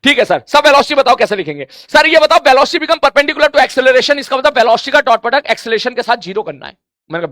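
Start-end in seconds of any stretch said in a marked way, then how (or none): 0.0-1.7 mock student asking. Student's question voiced by teacher. 1.7-6.8 mock student asking. Teacher voices a student's question.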